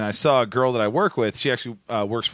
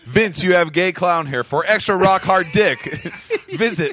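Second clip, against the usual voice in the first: spam bot voice; 7 semitones higher, 3 dB louder than usual. Pretend.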